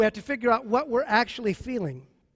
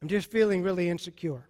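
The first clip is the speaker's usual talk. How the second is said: honest admission; 4 semitones lower than usual. Shown as a demonstration. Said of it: "you say".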